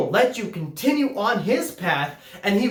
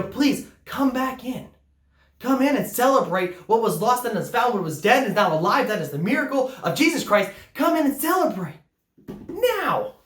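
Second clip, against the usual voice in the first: pleading father; 4 semitones higher than usual. Acted. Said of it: "the father has to come out to plead".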